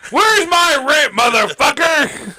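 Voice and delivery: slow, gruff demand for rent; gruff impatient scolding. Pretend. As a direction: lean on it like a bossy landlord. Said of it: "just be like".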